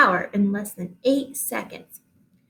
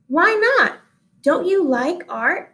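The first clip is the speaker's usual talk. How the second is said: surprised question; 7 semitones higher than usual. Acted. Teacher asks surprised question.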